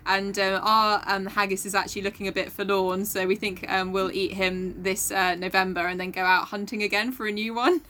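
imitated Scottish girl explaining earnestly; deadpan explainer in a put-on Scottish accent. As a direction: do a Scottish accent, matter-of-fact and unhurried. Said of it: "okay, I am doing the accent".

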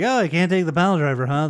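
fast, taunting heckle; mock heckle. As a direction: jeer at him quickly. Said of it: "they're heckling and like".

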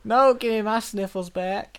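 high, slow hammed-up whine; drawn-out comic wail; mock pleading. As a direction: beg for your pet back, badly faked. Victim pleads in improv.

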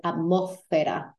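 atmósfera with the S breathed out like an H; aspirated S. Shown as a demonstration. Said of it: "because the S is often dropped".

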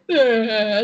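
a laughing, half-mocking sob; mock crying wail. Retelling her cry to a friend, laughing mock wail. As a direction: wail it like she's reliving a cry, laughing through it. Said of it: "って泣いて".

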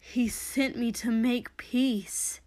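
slow, earnest protest; mild, measured objection. Acted. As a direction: insist on your good intent. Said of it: "Shoto protested".

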